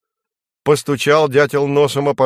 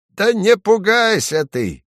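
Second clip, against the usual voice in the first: higher chirring little bat; small bat chattering reassurance; 9 semitones higher, 4 dB louder than usual. A narrator's reading. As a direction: chatter it out to calm the woodpecker. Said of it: "стрекочет зверёк".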